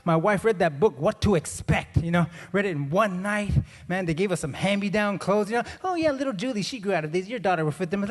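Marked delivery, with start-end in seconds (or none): 5.8-8.0 breezy mock generosity; lightly voiced gifting relative. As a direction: lightly act a friend offering hand-me-downs. Voicing a relative handing down clothes.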